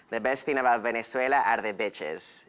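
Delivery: put-on accented "bitches" meant as beaches; mispronounced beach. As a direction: say "bitches" with a short i, meaning beaches. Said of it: "I couldn't say the word beach".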